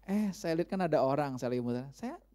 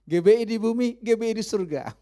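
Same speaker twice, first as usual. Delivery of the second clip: slogan cry; 4 semitones higher, 5 dB louder than usual. Retold or imitated. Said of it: "dosen saya dulu, dia bilang".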